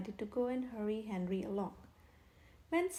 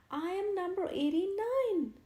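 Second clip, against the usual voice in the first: higher, louder protest; pleading shout; 8 semitones higher, 6 dB louder than usual. A narrator's reading. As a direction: insist desperately. Henry pleading.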